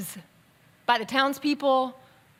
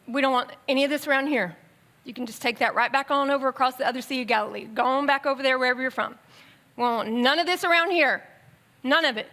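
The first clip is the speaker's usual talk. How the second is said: put-on townspeople shooing Jesus off, light Southern accent, fast; brisk, folksy Southern accent, lightly put on; mild Southern accent; much faster than usual. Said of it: "I know that they talk in a Southern accent".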